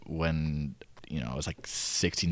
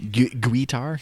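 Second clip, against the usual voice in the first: put-on Southern accent; 6 semitones higher, 8 dB louder, slower than usual. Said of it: "his accent's thicker".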